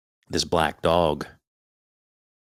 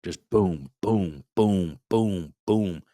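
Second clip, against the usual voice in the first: banging noise; much slower than usual. Retold or imitated. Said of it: "beating its head off that door".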